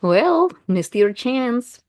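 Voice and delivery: teasing, taunting intonation; told-you-so tone. Shown as a demonstration. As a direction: rub it in, drawn out and lifted. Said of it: "you can hear probably this in my intonation".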